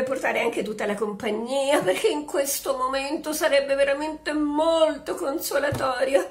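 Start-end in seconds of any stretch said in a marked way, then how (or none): 1.8-6.3 laughing through it. Acted. Widow flirts with commissioner.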